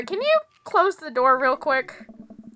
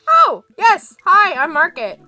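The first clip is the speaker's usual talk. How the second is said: character voice; 3 semitones higher, 8 dB louder, slower than usual. Acted. Player character greets neighbor.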